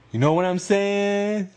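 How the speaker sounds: hyped agreement. Acted. Hyped agreement about marriage topic.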